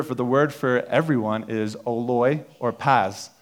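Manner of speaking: oloi or paz said slowly and carefully; Greek words read out. Shown as a demonstration. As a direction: sound out oloi or paz like a teacher. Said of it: "so the words for".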